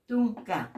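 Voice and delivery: TUNCA with a plain t and plain k; clean T. Shown as a demonstration. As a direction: say TUNCA with no puff on the t. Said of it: "la T limpia".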